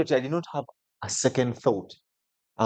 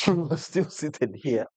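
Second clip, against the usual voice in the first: quoting through laughter; laughing; 6 semitones higher than usual. Retold or imitated. Retelling the funny driver's remark to a friend, laughing. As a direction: laugh while saying it.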